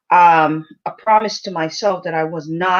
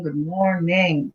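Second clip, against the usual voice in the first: plain; 3 semitones lower, 3 dB quieter, slower than usual. Shown as a demonstration. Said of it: "drawn greeting".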